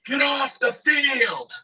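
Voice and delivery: very high, slow holler; drawn-out mock groundskeeper call; imitated distant yell. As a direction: stretch it out like a far-off shout. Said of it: "He's yelling".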